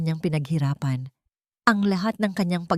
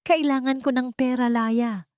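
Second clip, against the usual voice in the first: shouted demand; 7 semitones higher than usual. A narrator's reading. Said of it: "sigaw ni Marco".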